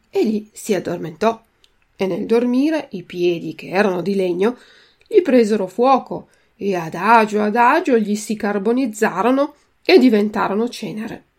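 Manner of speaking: racconto letto con calma ad alta voce; lettura narrata. A narrator's reading. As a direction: leggi la fiaba come a una classe. Reads the chapter aloud. (voce narrante di una fiaba)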